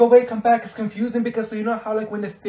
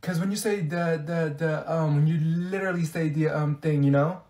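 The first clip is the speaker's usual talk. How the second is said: halting, filler-strewn explanation; stop-start muddled rambling; rambling incoherently. Acted. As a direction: grope for words and never arrive.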